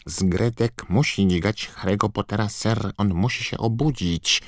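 high, squeaky elf voice; Dobby house-elf voice. A narrator's reading. (wysoki, piskliwy głos skrzata)

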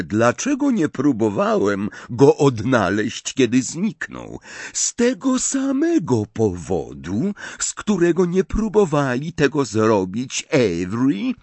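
lightly voiced measured wizard; Snape's voice. Snape continues his defence.

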